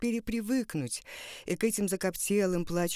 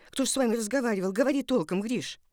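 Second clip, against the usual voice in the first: fast, louder anxious demand; urgent pressing; 3 semitones higher, 3 dB louder, faster than usual. Acted. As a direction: press him for an answer. Anxious mother pressing son.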